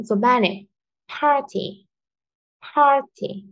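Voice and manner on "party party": "Party" with high, strong "Par", light "ty"; stress on first syllable. Shown as a demonstration. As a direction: hit "Par" high and drop on "ty". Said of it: "par là rất là mạnh".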